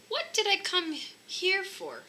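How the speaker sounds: forgetful husband confused in the bathroom; puzzled. Acted. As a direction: wonder aloud, lost. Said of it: "he asked himself".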